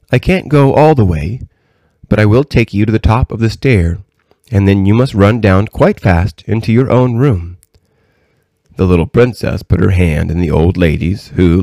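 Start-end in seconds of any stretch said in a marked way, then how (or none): 0.1-7.6 a hint of a grandmother, lilting and raised; lightly voiced kindly old lady. Old lady sending the princess downstairs, lightly voiced and kindly. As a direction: lightly play the old lady giving instructions.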